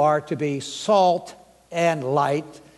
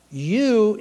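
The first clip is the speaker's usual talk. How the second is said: "you" set apart, higher and leaning on it; emphatic you; 4 semitones higher than usual. Shown as a demonstration. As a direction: punch the single word "you". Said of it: "is emphatic".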